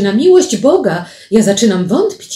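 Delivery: exclaiming. Acted. Paweł doubts whether he is dreaming, exclaiming in protest. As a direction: exclaim in disbelief, voice lifted a little. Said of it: "wykrzyknął Paweł wreszcie".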